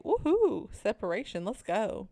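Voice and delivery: hammed-up celebrating; mock cheer. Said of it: "And Dot was like".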